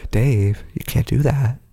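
lightly voiced computer plea; a hint of movie-computer monotone; HAL. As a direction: protest like a calm film computer. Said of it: "As he's unplugging everything".

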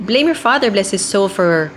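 quick, panicky line reading; flustered fast delivery. Shown as a demonstration. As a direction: rush it like a nervous mom. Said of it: "Kasi taranta eh".

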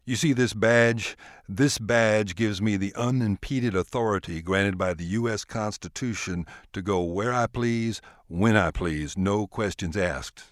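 slow, pressing, heated authority; a lawman's slow, mildly angry warning; angry agent. Acted. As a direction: lean on him with your badge, slowly and angrily. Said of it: "The agent got visibly angry".

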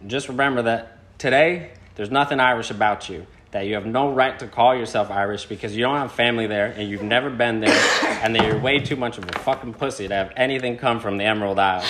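lightly imitated accuser reading out a rant; Bryn impression. Reading an insulting text to podcast friends, light impression. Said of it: "In my best, uh, Bryn impression".

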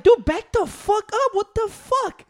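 retold angry yell. Man at the gym fountain telling a crowding stranger off, angry yell. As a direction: back him off like he's crowding you. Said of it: "I'm like".

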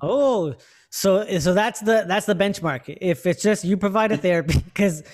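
high squeaky distorted voice; helium voice. Real, not acted. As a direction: sounds like he inhaled helium. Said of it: "I sound like I'm on helium".

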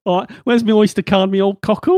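lightly done Cockney, cheery; chirpy London geezer voice; a hint of Cockney banter; Cockney London accent. Shown as a demonstration. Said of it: "I could do the London, Londoner version".

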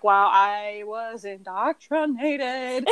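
laughing realization. Retold or imitated. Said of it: "And I'm like".

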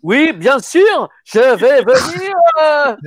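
high, drawn-out mock Asian accent; imitated Asian accent. Comedian mimics a Korean actor friend's failed Asian accent, hammed-up. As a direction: ham up a terrible Asian accent, loud and very slow. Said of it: "il me fait l'accent".

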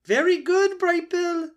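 put-on high, loud, hearty old goose voice; a big-hearted mother goose praising a gosling; old goose Loudwing.

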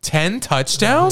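high, disbelieving squeak; can't believe it, voice jumps up; incredulous. Real, not acted. Disbelieving echo of touchdown count.

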